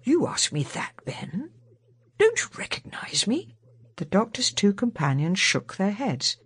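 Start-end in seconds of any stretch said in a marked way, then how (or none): 0.0-3.5 falls to a whisper on Ben; gentle teasing whisper. A narrator's reading. Doctor softly teasing.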